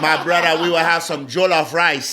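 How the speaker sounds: hammed-up African accent. Guest promising his brother a meal of jollof rice, African accent. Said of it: "so now it's the African".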